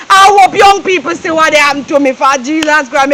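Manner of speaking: tearful lament. Acted.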